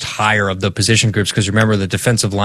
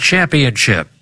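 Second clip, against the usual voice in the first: put-on old radio announcer; 3 semitones higher than usual. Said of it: "I'm gonna do an old-timey radio voice".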